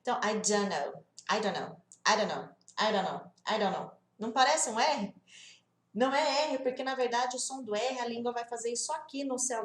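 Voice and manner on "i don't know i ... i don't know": I don't know run together, D tapped lightly; light flapped D. Shown as a demonstration. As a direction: blur don't into a quick "duno". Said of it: "um som de D bem leve". (I don't know com D leve, quase um R brasileiro)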